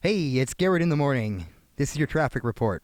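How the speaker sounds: upbeat morning radio DJ; radio announcer voice. Pretend. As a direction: read it like a breakfast-show host. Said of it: "Sound like a radio announcer".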